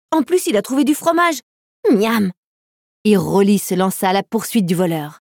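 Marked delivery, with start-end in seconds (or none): 0.1-2.3 high, delighted puppy exclamation; excited pup, pitched right up; crying out. A narrator's reading. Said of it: "s'écria Rolly".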